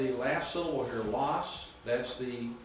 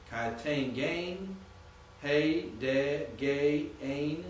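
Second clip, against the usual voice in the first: "Kai ten gain, hey, de, gay, ain" slow, word by word; emphasis on each syllable; 3 semitones higher, much slower than usual. Shown as a demonstration. Teacher reading Greek for beginners, emphasis on each syllable. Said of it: "all those are obviously one syllable".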